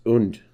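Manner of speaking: "und" with an oo vowel, as in German. Shown as a demonstration. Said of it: "In German".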